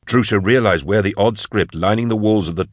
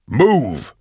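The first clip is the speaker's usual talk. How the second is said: urgent cry; 4 semitones higher than usual. Acted. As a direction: cry out to get them moving. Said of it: "cried Eisenhorn".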